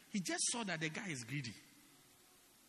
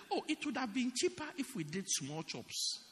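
mock sweet complaint; 5 semitones higher than usual. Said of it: "So they say".

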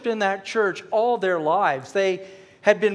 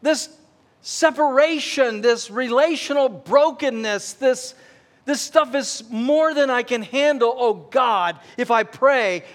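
desperate prayer; 5 semitones higher, 3 dB louder than usual. Pretend. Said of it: "you're going".

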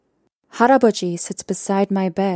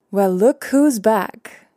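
grinning; 2 semitones higher, slower than usual. Acted. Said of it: "he grins".

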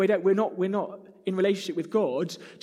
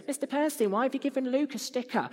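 put-on complaining kid; 7 semitones higher than usual. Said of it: "kids going".

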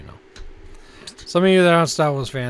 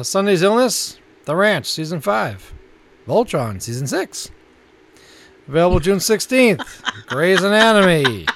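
announcer-style list reading; listings read; 5 semitones higher, 5 dB louder, slower than usual. Acted. Co-host announcing this month's new Netflix titles, measured announcer read.

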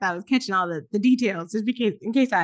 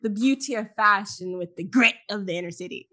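nature documentary. Pretend. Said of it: "National Geographic".

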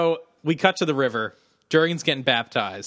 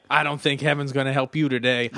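lightly imitated southern accent; a hint of Southern twang. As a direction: slip into a mild southern accent. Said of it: "a southern accent".

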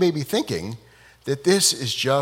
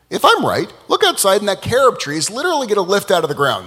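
louder, higher, pressing his point; exasperated challenge; 5 semitones higher, 3 dB louder, faster than usual. Acted. Rabbi Eliezer daring his students to look, exasperated. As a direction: dare them to prove him wrong.

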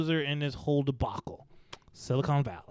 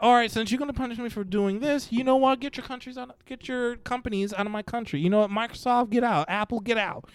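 higher-pitched, hammed-up kicking them out; mock angry Russia; 5 semitones higher than usual. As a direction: play a petty ruler throwing companies out. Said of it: "It's like".

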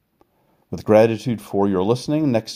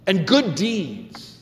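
slowed; 12 semitones higher, much slower than usual. Acted. Slowed ending of scripture phrase.

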